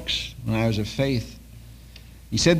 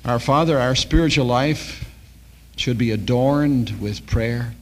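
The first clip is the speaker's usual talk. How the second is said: prayer. Acted. Pastor closing the service with prayer for the halls, earnest. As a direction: pray it over the room, unhurried.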